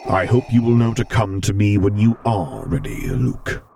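a hint of a gentle stern lord; Vader voice.

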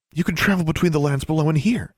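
the thought dawns and lifts the voice; sudden realization. A narrator's reading.

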